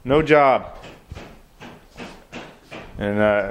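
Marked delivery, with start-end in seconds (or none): 0.0-0.8 mock boss. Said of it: "Dude's like".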